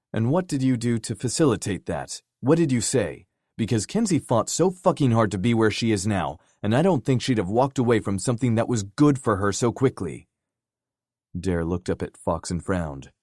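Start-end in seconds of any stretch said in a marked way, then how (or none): 0.1-10.3 accusing. Acted. Fox confronts Dare.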